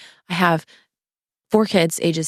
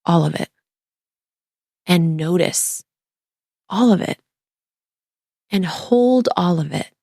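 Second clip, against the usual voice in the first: reading a letter. Acted. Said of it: "I'm gonna read it".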